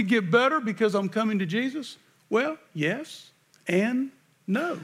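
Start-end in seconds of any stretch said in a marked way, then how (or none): 2.3-4.8 drawn-out yes and no with a rising end; slow, questioning yes and no. Shown as a demonstration. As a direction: stretch it slowly and lift the no. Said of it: "How do you like that for a politically correct answer?".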